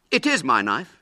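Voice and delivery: put-on high, loud boyish insistence; indignant. William appealing to Mrs Lane, indignantly. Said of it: "He turned indignantly to Missus Lane".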